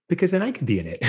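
cheeky quoted friend; friend's voice. Retold or imitated. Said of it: "And she goes".

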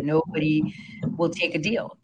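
ordinary talk, nothing marked

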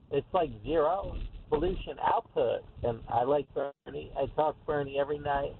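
mock Westchester Valley Girl voice; Valley Girl impression. Caller mocks the congresswoman's accent, Valley Girl impression. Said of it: "my quick impression of her is".

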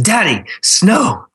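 high, drawn-out mock toddler excitement; excited two-year-old. Dad imitates his two-year-old daughter at the front door, very excitedly. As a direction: imitate a thrilled little child, stretching each word. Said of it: "very excitedly, with that excited two-year-old face".

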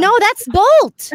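excited. Real, not acted. Excited at recognizing the drawing.

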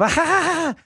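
high-pitched mock cackle; bizarre cackle. Host mocking the vice president's laugh, bizarre cackle. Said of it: "bizarre cackles".

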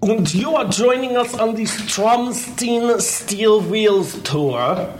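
slow, high, hammed-up German accent; bad German accent, stretched out slowly; terrible German accent. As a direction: ham up a bad German accent for the show name. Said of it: "It's my terrible German accent".

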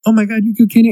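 high, excited imitation of outcry; mock cartoon catchphrase. Friend mimicking South Park's running gag, high mock outcry. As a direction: cry it out in mock shock. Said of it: "When they were like".

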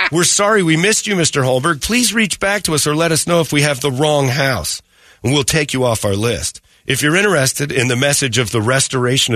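lightly put-on earnest missionary; mock missionary letter reading. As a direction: read out a polite church note in mild mockery.

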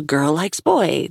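slow sarcastic woman. Acted. Her line, quoted later by narrator.

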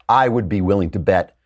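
ordinary talk, nothing marked

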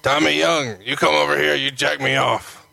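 gruff wrestler voice, lightly done; Barbarian impression. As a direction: growl it like the Barbarian. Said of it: "He would say".

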